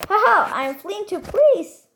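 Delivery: high-pitched playful character voice; mock laugh into a high, showy line; Amber imitation. Player echoing a fire brawler's line, high imitation. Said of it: "Jetzt Amber".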